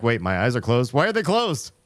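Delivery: high, loud bewildered cry; surprised at her own closed eyes; retold confusion. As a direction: voice jumping up in disbelief. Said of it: "I was like".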